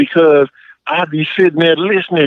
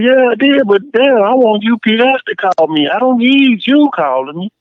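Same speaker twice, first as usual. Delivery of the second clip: higher, fed-up answer to the caller; mock outrage, pitched up; indignant retort; 6 semitones higher than usual. Retorting to pushy phone caller.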